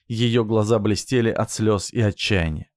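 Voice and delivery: usual speaking voice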